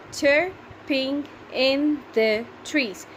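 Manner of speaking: Chirping in the trees drawn out slowly, each syllable spaced; slow syllable reading. Shown as a demonstration. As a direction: read it slowly so pupils can count. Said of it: "Can you count how many are they?".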